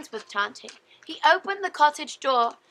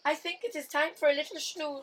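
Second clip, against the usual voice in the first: softer, quicker sleepy murmur; 9 dB quieter, faster than usual. Acted. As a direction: drift off, yawning toward a nap. Tired Tante before nap.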